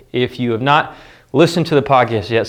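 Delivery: shallow breathing; winded, catching breath. Real, not acted. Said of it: "sorry, I'm out of breath".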